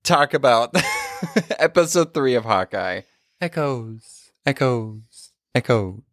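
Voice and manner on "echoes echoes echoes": digital echo. Acted. Echo effect on title.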